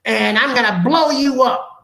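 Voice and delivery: mock old club-owner woman, slow and drawn out; lightly put-on old lady, gushing praise; mother's voice. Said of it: "I do his mother's in voice".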